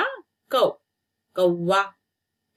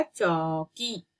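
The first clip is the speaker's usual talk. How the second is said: चौकी drawn out slowly; slow clear naming; 3 dB quieter, much slower than usual. Shown as a demonstration. Teacher to pupils, saying चौकी slowly. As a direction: stretch चौकी for the class. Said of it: "च में औ की मात्रा".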